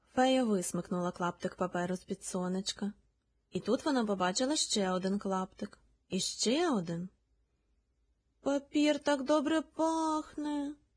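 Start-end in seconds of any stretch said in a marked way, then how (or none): 8.4-10.7 sheepish, high, slow little guilty squeak. The first ladybug answers the berry fairy about the paper scrap, with a guilty squeak. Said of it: "винувато пискнуло перше сонечко".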